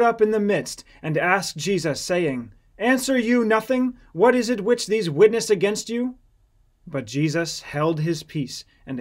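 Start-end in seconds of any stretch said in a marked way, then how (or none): 2.8-6.2 much higher, louder demand; exasperated interrogation. Acted. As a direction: press him hard for an answer. High priest demands an answer.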